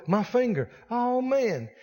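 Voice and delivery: a hint of a whining complainer; lightly mocking self-pitying whine; whiny self-pity. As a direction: mope over the finger with a light whine. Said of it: "They'll focus on it and go".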